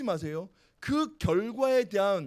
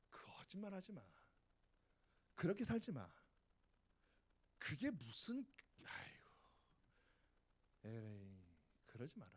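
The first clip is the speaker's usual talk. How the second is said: hushed scolding; 12 semitones lower, 19 dB quieter than usual. Real, not acted. Quiet scolding aside to students.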